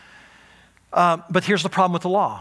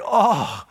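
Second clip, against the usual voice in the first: acted sigh of relief; 2 semitones higher than usual. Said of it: "Can you imagine the joy, the elation of hitting firm ground?".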